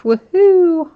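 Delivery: high, loud woohoo; celebratory cheer. Real, not acted. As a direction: cheer the hit with a drawn-out, high whoop. Cheering an autograph hit.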